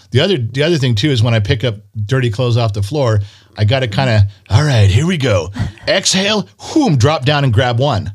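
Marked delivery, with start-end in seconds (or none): 4.5-8.1 psyching up for a small effort; mock self-coaching. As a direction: talk yourself through it like an exercise rep. Acting out effortful floor pickup routine.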